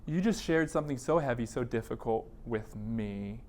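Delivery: a therapist gently checking in after a heavy disclosure; gentle therapist check-in. Shown as a demonstration. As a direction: ask it gently, inviting the client to open up. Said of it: "make bids and openings to say".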